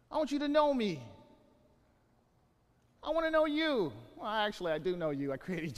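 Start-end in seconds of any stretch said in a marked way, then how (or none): 0.1-3.9 voice of God. Retold or imitated. Voicing God's desire.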